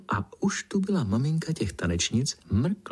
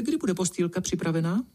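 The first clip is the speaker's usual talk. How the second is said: put-on higher, impatient girl voice; eager Pinkalinka; 9 semitones higher than usual. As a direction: ask eagerly. Eager princess voice.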